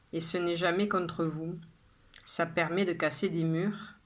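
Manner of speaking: measured poem reading with pauses after each line; poem recitation. Acted. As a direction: recite it line by line, evenly and deliberately. Reads the poem a second time. (lecture de poème posée, vers par vers)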